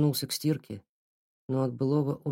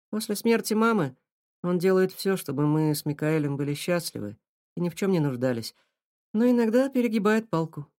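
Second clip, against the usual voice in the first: put-on young girl voice; 4 semitones higher than usual. Girl voiced higher by reader.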